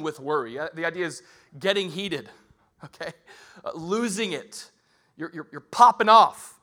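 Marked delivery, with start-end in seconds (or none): 5.2-6.6 animated. Real, not acted. Describing popping off.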